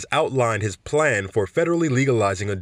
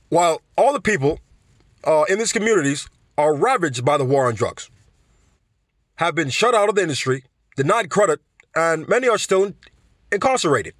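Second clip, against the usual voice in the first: put-on Bernie accent; 3 semitones higher than usual. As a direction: read the campaign email as a fired-up Bernie. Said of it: "I can't even do the accent".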